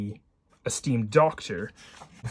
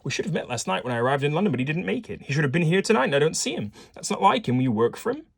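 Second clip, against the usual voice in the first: put-on quick, raised Viennese-accented professor; 5 semitones higher, 3 dB louder, faster than usual. Professor puzzled that George is missing, Viennese accent. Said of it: "shall I do a Viennese as-, accent".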